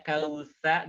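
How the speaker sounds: slow "kausa" with an open final sa; "kausa" with no O colour; perfect A vowel. Shown as a demonstration. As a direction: stretch "kausa", keeping pure A. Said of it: "Jadi sempurna".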